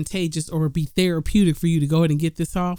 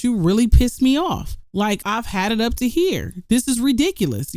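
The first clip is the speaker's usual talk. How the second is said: upset demo; 5 semitones higher than usual. Shown as a demonstration. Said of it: "preface that conversation with".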